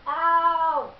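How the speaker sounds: sharp pained yelp; brain freeze. Real, not acted. Brain freeze while chugging.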